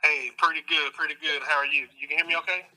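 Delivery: caller heard through speakerphone; tinny call-in voice over a speaker; phone speaker. Real, not acted. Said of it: "I got you on speakerphone".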